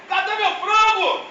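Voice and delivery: high, slow yell for the lost frango; retold yelling. A boy yelling in the dark kitchen for his chicken, high and slow. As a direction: stretch out "frango" in a desperate high call. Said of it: "Fiquei gritando igual doido na cozinha".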